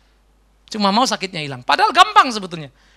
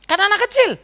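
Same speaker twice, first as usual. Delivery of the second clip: higher and louder, pointed; emphatic answer; 12 semitones higher, 4 dB louder, faster than usual. Shown as a demonstration. Preacher answers his own question loudly to the congregation. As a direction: fire it back as the answer. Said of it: "Kenapa kita biarkan?".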